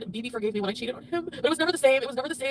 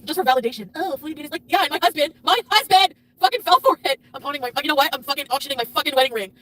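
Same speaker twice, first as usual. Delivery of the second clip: much louder, shouting at the peak; angry outburst; 6 dB louder than usual. Real, not acted. Wife venting to chat about her husband, shouting angrily. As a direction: boil over about the husband.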